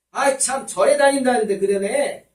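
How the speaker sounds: high, loud exasperated shout. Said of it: "소리를 지르는 거예요".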